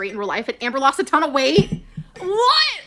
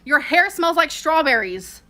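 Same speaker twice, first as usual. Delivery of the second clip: slow dictation; 3 semitones higher, 4 dB louder, slower than usual. Retold or imitated. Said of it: "Destiny said to Dana was".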